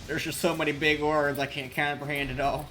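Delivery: loud, accidental Southern accent; Southern twang creeping in unplanned. Real, not acted. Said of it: "Why'd I turn Southern".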